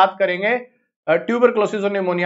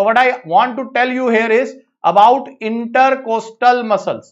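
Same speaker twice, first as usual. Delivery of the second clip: drawn-out, deliberate English phrase; slow it right down to make the point; deliberate slow explanation; slow emphasis; much slower than usual. Shown as a demonstration. Teacher stresses point slowly.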